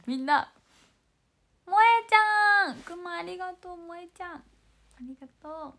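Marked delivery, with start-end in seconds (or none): 1.7-2.8 loud, slow drawn-out call of a name. Real, not acted. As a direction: call her name across the room, stretched out. 呼びかけ、大声で名前を呼ぶ. (名前を大きく伸ばして呼ぶ)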